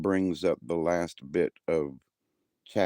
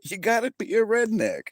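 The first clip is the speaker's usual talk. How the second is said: much higher, squealed through laughter; laughing hard; 4 dB louder than usual. Real, not acted. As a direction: squeak it out while cracking up. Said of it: "I'm laughing so hard".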